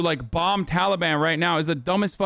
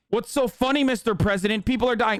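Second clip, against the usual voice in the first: higher, whiny mock reporter voice; 5 semitones higher than usual. Streamer mocks the White House reporter, whiny and higher. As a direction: ham up the reporter's outrage, a bit higher. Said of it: "I, I just, like".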